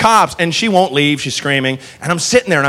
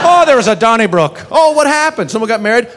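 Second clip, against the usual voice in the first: mock Irish voice; 5 semitones higher than usual. Mock Irish exchange about Donnybrook.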